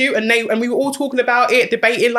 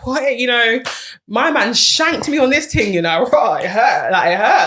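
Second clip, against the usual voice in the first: light, jokey complaint with a laugh; bantering about being hurt, half-laughing; joking banter; 2 semitones higher, slower than usual. Retold or imitated. Joking to friends on the couch, lightly hurt banter. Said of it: "that's exactly how I said it in that tone".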